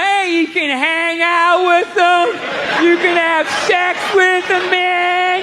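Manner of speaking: loose, drawn-out stoner hippie; hippie dude voice. Retold or imitated. Comic imitating a forties hippie talking to his son, loose hippie drawl. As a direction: play the laid-back hippie selling free love.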